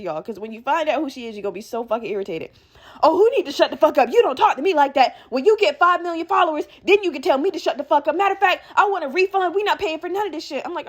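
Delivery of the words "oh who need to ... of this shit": mock argumentative customer, pitch climbing; indignant retort. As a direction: imitate an entitled, outraged mom. Mom quarrels, demands refund.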